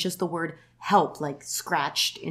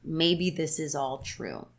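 slow, haunted; much slower than usual. Retold or imitated. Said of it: "she says".

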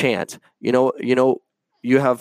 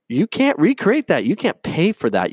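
excited outburst; 6 semitones higher than usual. Real, not acted. Heated rant.

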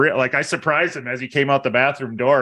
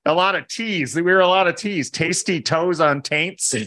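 vocal warm-up; 5 semitones higher than usual. Shown as a demonstration. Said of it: "Let me hear them".

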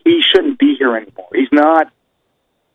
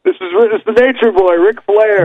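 Ric Flair; 6 semitones higher than usual. Acted. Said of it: "you be Ric Flair calling one of his fans".

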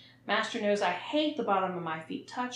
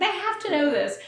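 higher, louder insistence; emphatic, louder; 9 semitones higher, 7 dB louder than usual. Real, not acted. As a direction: press the point home. Repeated emphatic point.

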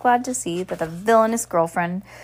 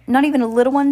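pleading; 6 semitones higher, 7 dB louder, much faster than usual. A narrator's reading. Reporter begging for a hint.

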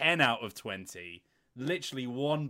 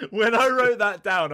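laughing; 9 semitones higher, 11 dB louder than usual. Real, not acted. Laughing while telling.

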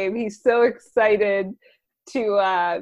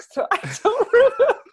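laughing; 12 semitones higher, 5 dB louder than usual. Real, not acted. Embarrassed laugh about being drunk.

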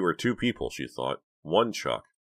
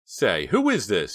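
shaky voice; 4 semitones higher, 5 dB louder, slower than usual. A narrator's reading. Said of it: "his voice shaky".

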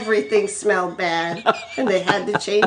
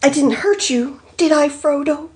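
raised, anxious checking tone; worried; 7 semitones higher than usual. A narrator's reading. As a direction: ask with concern, pitch lifted. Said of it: "he said worriedly".

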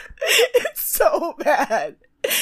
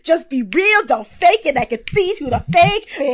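higher, louder mock lecture; Tyra; 5 semitones higher, 4 dB louder than usual. Host acting out Tyra leaning on Jay and snapping, hammed-up impression. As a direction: punch each short phrase with hammed-up emphasis. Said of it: "She's just like".

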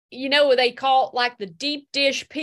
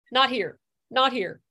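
self pep talk; 3 dB louder than usual. Real, not acted. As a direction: bark at yourself to hold it together. Tammy scolds herself to stop crying.

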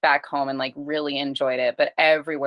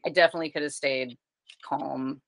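gentle apology. Retold or imitated. Retold calm apology to her son.

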